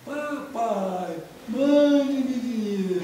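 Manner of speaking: slow, high, drawn-out mock wail; nearly dying plea. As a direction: stretch it out like someone on their last legs. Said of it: "Ele tava nas últimas, tava quase morrendo".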